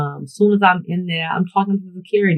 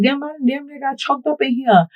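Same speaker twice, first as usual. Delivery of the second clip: higher-pitched exasperated retelling; exclaiming to security; 8 semitones higher than usual. Retold or imitated. Telling security about nearly getting choked up, high and exasperated. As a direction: blurt it out, half laughing at the near miss. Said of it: "so I let security know".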